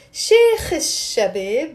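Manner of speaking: "Sheikh al-Shabab" linked as "shekh-ish-shabeb"; slow demonstration, no L in "Sheikh al-Shabab"; with a liaison. Shown as a demonstration. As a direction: slowly run "Sheikh al-Shabab" together, holding the sh. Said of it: "with a liaison".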